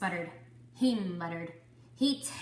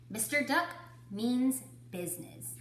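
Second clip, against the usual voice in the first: put-on reading to children. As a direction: clear storybook read-aloud. Teacher reads picture book aloud.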